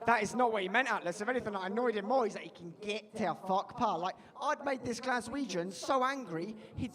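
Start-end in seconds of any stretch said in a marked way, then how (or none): 2.4-4.0 quick return to the Scottish heckler impression. Annoyed Glasgow heckler dismisses the comic, Scottish accent. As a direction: imitate the aggressive Scot in passing. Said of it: "very aggressive and very Scottish".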